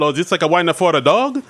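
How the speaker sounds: mock Italian accent, questioning; imitated Italian sketch accent; over-the-top Italian accent. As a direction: ask it in a fake Italian accent. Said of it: "just over-the-top Italian accents".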